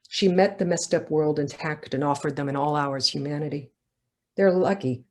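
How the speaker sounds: measured reading voice for a novel; steady literary reading; story narration. A narrator's reading. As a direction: read it as the author to an audience. Author reads her novel aloud.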